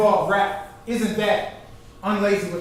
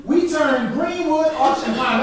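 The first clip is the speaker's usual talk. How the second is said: recited rhyme line; 6 semitones higher than usual. Shown as a demonstration. Speaker quoting the piece to the audience, recited.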